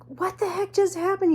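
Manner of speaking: whispering. Retold or imitated. Whispered quote, unvoiced.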